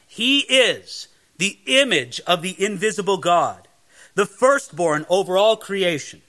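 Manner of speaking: firm, measured proclamation of scripture; majestic scripture reading. Acted. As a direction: proclaim it grandly, phrase by phrase. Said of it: "it's such a majestic passage here".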